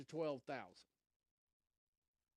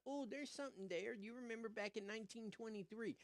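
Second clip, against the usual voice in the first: mock nostalgic fan; 5 semitones higher, 6 dB quieter than usual. Mocking nostalgic fans.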